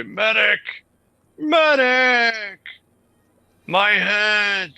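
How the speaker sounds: high, loud cry for a medic; man down shout. Acted. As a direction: yell for help like a wounded soldier. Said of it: "and I'm gonna say".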